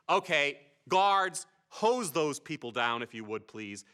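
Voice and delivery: slow, drawn-out mock order; mock commanding. Speaker on stage calling guards on hecklers, mock command. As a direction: give a measured order, tailing off politely.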